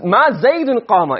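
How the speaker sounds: slow example. Shown as a demonstration. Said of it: "if we have".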